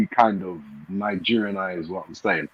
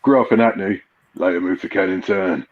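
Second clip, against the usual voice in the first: Idris Elba; 3 semitones lower than usual. Shown as a demonstration. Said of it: "that's what you have to do".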